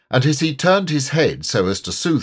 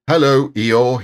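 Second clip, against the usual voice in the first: a hint of a brisk Rabbit, louder and lifted; lightly voiced Rabbit; 4 semitones higher, 7 dB louder than usual. A narrator's reading. Rabbit greets Eeyore in the forest, lightly voiced Rabbit. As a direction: lightly play Rabbit hailing someone, raised pitch.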